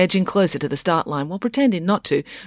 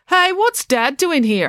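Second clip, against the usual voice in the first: put-on surprised girl; 11 semitones higher, 4 dB louder, slower than usual. Girl spots her dad in crowd.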